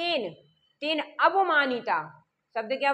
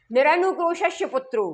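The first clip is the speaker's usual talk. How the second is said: mock scolding; 4 semitones higher, 4 dB louder than usual. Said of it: "ऐसा कह के डांटती हैं".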